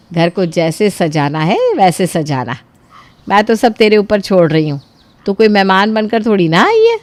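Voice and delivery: put-on warm, generous older woman; welcoming, reassuring; lightly voiced mother-in-law. Mother-in-law welcoming her son's wife, lightly voiced.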